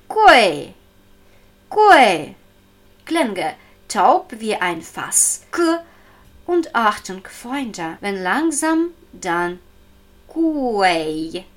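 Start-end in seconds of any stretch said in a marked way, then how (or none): 0.1-2.4 Gui, louder, falling like indignation; indignant falling tone. Shown as a demonstration. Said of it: "Empörter Ton". 10.3-11.4 Gui said slowly, not ending in ui. Shown as a demonstration. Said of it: "Nicht Ui am Ende".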